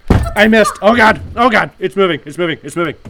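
high screaming panic; panicked screaming. Acted. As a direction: scream it, terrified of the spider.

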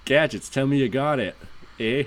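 put-on Canadian with a tagged "eh"; Canadian accent. Spy asks his tech sidekick, in a light Canadian accent. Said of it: "let me put my Canadian accent on".

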